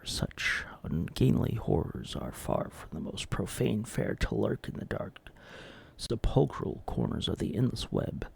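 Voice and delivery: hushed, ominous storyteller; creepy horror narration. Acted. Host warning viewers, a hushed ominous horror narration. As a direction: draw the viewer into dread.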